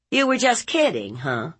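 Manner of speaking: high, quick mocking echo; scornful aunt. Aunt mocking nephew's excuse, high and scornful. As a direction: toss the excuse back with scorn.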